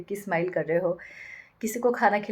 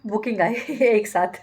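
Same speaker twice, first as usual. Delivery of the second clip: laughing; 5 dB louder, slower than usual. Real, not acted. Laughing while telling.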